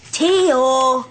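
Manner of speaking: drawn-out, impatient call of the name; insistent attention-getting call. Acted. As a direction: call out to someone who is ignoring you. Calls again, ignored by the reader.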